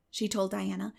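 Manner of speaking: ordinary delivery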